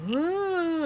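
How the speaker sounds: drawn-out high "woo" imitating a sleeper; mock sleepy hoot; imitated groggy noise. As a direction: mimic someone stirring from sleep, high and long. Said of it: "he's like".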